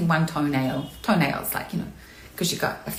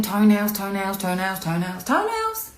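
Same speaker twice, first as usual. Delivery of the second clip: holding back tears. Real, not acted. Streamer thinking toenails so as not to cry, holding back tears. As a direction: chant it to stop yourself crying, voice climbing at the end. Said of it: "gonna have to think toenails again".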